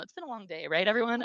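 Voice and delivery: laughing off the tears to the crowd; emotional. Real, not acted. Teacher asking the audience for sympathy, teary and high. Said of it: "I'm so emotional".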